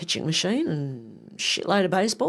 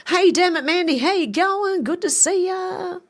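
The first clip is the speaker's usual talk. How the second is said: much higher, louder cheery hello, slowing at the end; excited greeting; 11 semitones higher, 3 dB louder than usual. Real, not acted.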